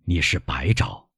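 lightly voiced, slow old man; weak old father. Weak father admits empty cupboard.

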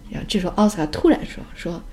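ordinary delivery

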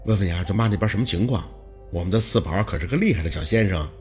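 low-pitched, easygoing reassurance; light, easy tone. A narrator's reading. Lu Pei soothing anxious Baosi, light easy tone. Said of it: "他的语气很轻松".

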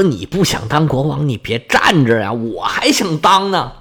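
understated mock outrage, stretching the last retort; mildly indignant. Uncle complains about nephew quitting the throne, mildly indignant. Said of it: "鼻子都给气歪了".

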